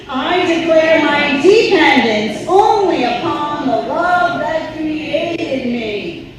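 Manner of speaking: loud, high, with a laugh, slowing at the end. Shown as a demonstration. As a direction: restart the line fully and strongly. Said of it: "Let's try that one again".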